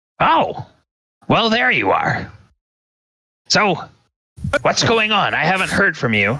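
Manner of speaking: put-on very high, testy, impatient elderly wizard voice. Game master voices a mage greeting the players, impatient voice. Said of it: "he looks like he's a bit impatient, and his voice matches that".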